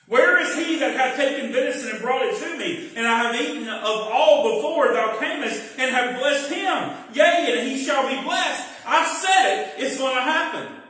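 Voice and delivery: a father realising he's been tricked; trembling dismay. Acted. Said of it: "He's trembling".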